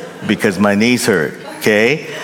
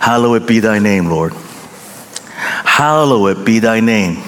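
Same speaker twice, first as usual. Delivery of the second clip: reverent prayer. Shown as a demonstration. Pastor models a reverent prayer.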